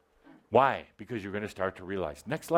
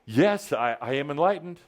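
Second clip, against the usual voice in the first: with attitude; 2 semitones higher than usual. Shown as a demonstration. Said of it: "say it with a bit of an attitude, some acting".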